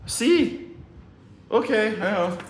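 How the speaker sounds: high-pitched put-on Hispanic accent; imitated Hispanic accent. Hispanic workers answering his wife, accented agreement. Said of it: "And they were like".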